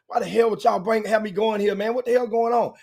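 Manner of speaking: playing annoyed to fool his wife, mock frustrated; fake frustration. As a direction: pretend to be fed up. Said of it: "I'm acting like I'm frustrated".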